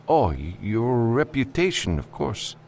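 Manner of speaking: high, hesitant client voice; nervous, evasive client. Acted. Client dodging the freelancer's question, high and nervous. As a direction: stumble through it high and nervously.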